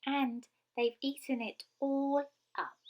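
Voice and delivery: high, upset little bear voice; squeaky Baby Bear. A narrator's reading. Baby Bear finding his porridge gone, squeaky and upset. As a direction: complain in a small high squeak. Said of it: "in his squeaky little voice".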